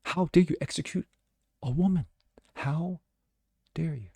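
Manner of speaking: high shrieked "Ree" sliding into breathy outrage; sneering parody of a shocked activist; mocking woke protester. Host mocking imagined critics with a shrill outraged voice. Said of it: "the leftist woke come out and go".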